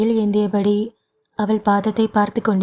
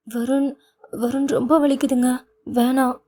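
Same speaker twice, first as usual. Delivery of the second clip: whimpering; 4 semitones higher than usual. Acted. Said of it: "சினுங்கிக் கொண்டிருந்தாள்".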